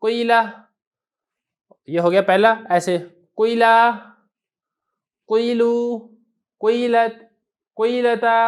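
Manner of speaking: कोयला with the vowel between कुविला and कीला, a slight u-rounding; teacher modelling कोयला, कोयलू, कोयलत, कोयलता with a hint of u; ishmam demo. Shown as a demonstration. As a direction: round the lips lightly on कोयला, not full u, not plain i. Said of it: "कैसे पढ़ना है?".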